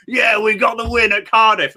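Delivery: high-pitched, hammed-up cheer; mock celebration. Imitating Rovers players on social media, mock celebration. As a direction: mimic players crowing about a win.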